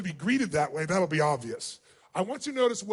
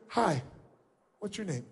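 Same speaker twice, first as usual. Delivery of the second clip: much softer, timid hello; fearful kid; 5 semitones lower, 11 dB quieter than usual. Shown as a demonstration. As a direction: shrink away like a scared child. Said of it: "like a little kid shows their fears".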